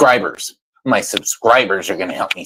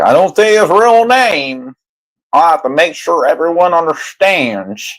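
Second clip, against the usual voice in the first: mocking impression; 6 semitones higher than usual. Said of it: "You're like".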